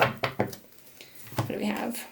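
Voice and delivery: slow hushed whisper. Real, not acted. Reader whispers to Spirit while drawing a card. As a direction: whisper the question slowly.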